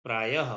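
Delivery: प्रायः ending in a half h breath. Shown as a demonstration. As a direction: sound the half h after य in प्रायः. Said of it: "आधा ह". (प्रायः में य के बाद आधा ह)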